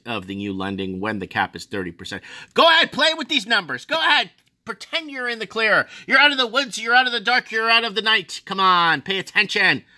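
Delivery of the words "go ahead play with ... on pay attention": loud, high-pitched taunting; exasperated outburst. Real, not acted. Telling borrowers to wake up, loud exasperated taunting. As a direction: goad them in a raised, high voice. Sarcastic outburst at those playing along.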